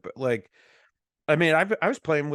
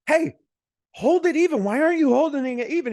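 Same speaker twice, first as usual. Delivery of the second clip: high, loud impatient order; dad yelling at his son hanging sheetrock; 12 semitones higher, 5 dB louder than usual. Retold or imitated. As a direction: shout instructions across the room. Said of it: "yelling at him".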